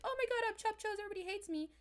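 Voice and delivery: mock the hurt party guest; self-pitying whine. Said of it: "Instead of being like".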